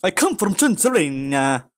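slightly high, hammed-up vampire voice; Count Dracula. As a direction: play a campy Transylvanian vampire. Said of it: "Count Dracula".

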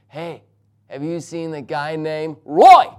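slow strange talk bursting into a yelled name; yelling the name. Retold or imitated. Stranger asking after a man, suddenly yelling out the name. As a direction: normal volume, then suddenly blast the last word. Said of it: "then he yelled it, literally yelled it out".

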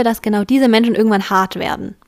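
ordinary delivery

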